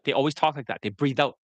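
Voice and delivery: usual speaking voice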